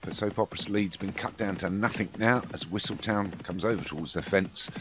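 steady play-by-play race commentary; live race call. Acted.

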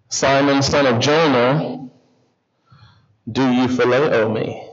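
low, measured question with pauses; gentle question. Retold or imitated. Jesus asks Peter the third time, gently.

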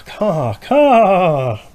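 high loud cawing crow. Acted. Crows next door calling out, high cawing. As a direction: caw like a crow. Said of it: "the crows from next door called".

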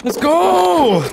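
excited shout. Real, not acted. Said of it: "This villain kid keeps on screaming".

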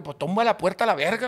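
re-enacted exasperated order; urgent insisting. Urging wife during retold phone call.

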